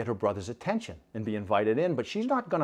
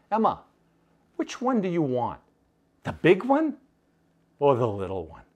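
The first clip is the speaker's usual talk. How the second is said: teasing big brother; 3 semitones higher than usual. Acted. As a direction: dangle the question like bait. Brother tempting with coins.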